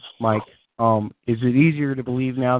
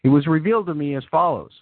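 storyteller reading fan fiction; story narration. A narrator's reading. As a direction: narrate it like a fantasy tale. Reads fan fiction aloud.

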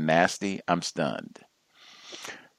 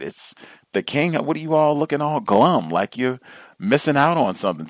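lightly imitated pushy cheerleader, raised pitch; mock hounding; 7 semitones higher than usual. Holiday booster hounding glum coworkers, mock pushy. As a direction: chivvy the glum ones in a higher mock voice. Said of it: "hounding to get people excited".

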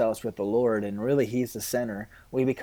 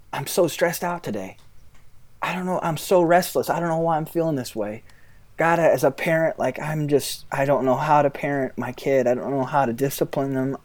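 stressed self-talk; 3 semitones higher than usual. Retold or imitated. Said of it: "step one would be".

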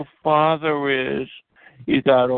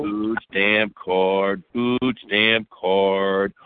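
slow taunt; 4 semitones lower, much slower than usual. Acted. Taunting rival on call.

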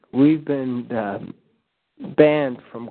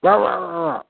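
dog barking; 5 semitones higher than usual. Retold or imitated. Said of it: "it should be dogs barking".

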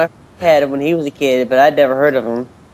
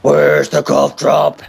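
movie villain impression; much slower than usual. American Psycho Bateman impression.

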